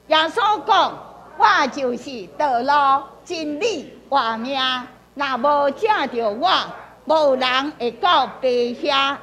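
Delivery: deliberate phrases with lifted openings; group-leading scripture reading. Shown as a demonstration. Pastor leading the group in reading aloud, measured recitation. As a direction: lead everyone through the verse, phrase by phrase. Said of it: "咱来读看卖".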